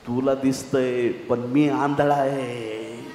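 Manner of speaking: slow, drawn-out protest; pleading blind man. Acted. Blind man answering those who hush him, slow protest. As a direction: stretch the words out in protest.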